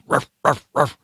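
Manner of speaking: short, plain mock ruffs; ordinary dog bark. Shown as a demonstration. Host contrasting dog barks, short ordinary ruff. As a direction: bark lightly in brief ruffs. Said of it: "your bark is a little bit different".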